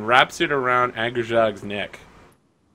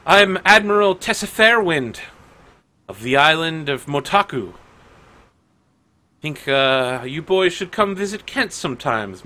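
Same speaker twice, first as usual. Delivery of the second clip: swaggering pirate lord, pitched up and louder; Admiral Tessa Fairwind; 6 semitones higher, 4 dB louder than usual. Acted. Pirate lord offers the party a tip, swaggering. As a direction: play a bold pirate captain sizing up the crew. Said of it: "approached by one of the pirate lords. She comes swaggering up".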